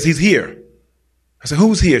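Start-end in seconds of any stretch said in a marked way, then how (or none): 0.0-0.6 imitating an urgent warning; higher-pitched, acted-out alarm. Wife's alarmed phone call. 1.6-2.0 higher, louder acted-out question; reenacting urgent confusion. Husband reacts to wife's alarm.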